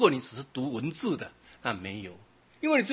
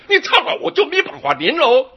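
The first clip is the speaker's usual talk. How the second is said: laughing; 12 semitones higher, 10 dB louder than usual. Retold or imitated. Laughing mock of the bird quote.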